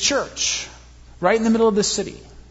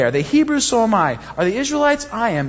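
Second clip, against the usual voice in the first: high, cocky bragging over each question; smug rival topping the false teachers; boastful one-upping; 4 semitones higher, faster than usual. Retold or imitated. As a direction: toss off each answer like a trump card. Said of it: "playing their game".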